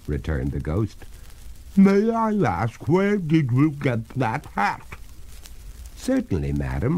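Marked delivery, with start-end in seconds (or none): 1.7-4.9 high, loud ghost voice; water ghost, inquiring. Acted. 6.0-7.0 politely voiced master; courteous. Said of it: "returned the master courteously".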